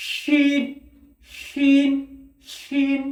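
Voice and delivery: শিন with mid tongue on the palate; careful letter drill; Arabic letter demo. Shown as a demonstration. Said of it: "শিন উচ্চারণ হয়".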